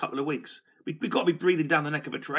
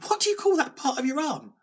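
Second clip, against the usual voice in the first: asked through a real laugh, pitched higher; 11 semitones higher than usual. Real, not acted. Vlogger laughs at forgetting the word forearm, laughing. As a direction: laughs at his own blank as he repeats it. Repeats question, laughing at himself.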